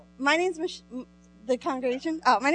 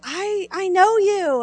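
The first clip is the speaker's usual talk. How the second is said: put-on little girl voice; 8 semitones higher, 4 dB louder, slower than usual. Small girl speaks to the speaker.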